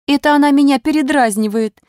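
aunt shrieking, near tears. A narrator's reading. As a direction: squeal it out in hurt outrage. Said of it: "взвизгнула тётка и всхлипнула".

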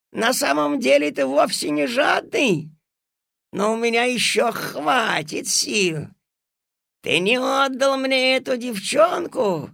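high, loud, vengeful threat; menacing threat. Acted. Villain threatens the boy.

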